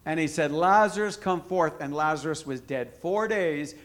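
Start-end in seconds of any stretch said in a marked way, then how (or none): 0.5-1.8 loud call on the name. Acted. Jesus calling Lazarus out of the grave, loud call. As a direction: call him out of the tomb.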